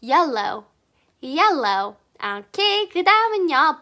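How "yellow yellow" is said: "Yellow" with the tongue bitten on both l's; biting the tongue for l. Shown as a demonstration. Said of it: "혓바닥을 물어요".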